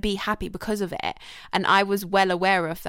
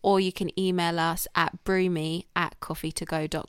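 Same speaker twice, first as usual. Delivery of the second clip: slow, drawn-out outro plug; measured podcast outro; podcast sign-off; 4 dB quieter than usual. Real, not acted. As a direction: wrap up the show, stretching the words slowly.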